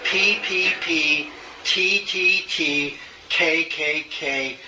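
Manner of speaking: crisp, evenly spaced letters P, T, K in threes; diction drill. Shown as a demonstration. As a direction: chant out "P, P, P, T, T, T, K, K, K" as separate beats. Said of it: "She gave me one exercise".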